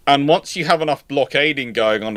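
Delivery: ordinary talk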